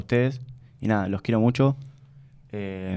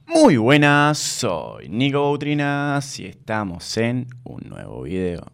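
sing-song catchphrase greeting; slower than usual. Shown as a demonstration. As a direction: belt the first words and stretch the rest like a YouTuber intro. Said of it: "hacémelo para que me quede". (saludo con cantito, arranque fuerte y alargado)

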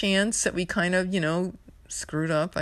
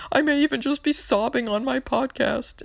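mock wail; 9 semitones higher than usual. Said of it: "I'm like".

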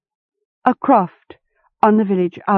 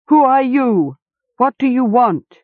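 snarling hound; 7 semitones higher than usual. A narrator's reading. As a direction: snarl the questions at the intruder like a guard dog. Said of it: "it snarled".

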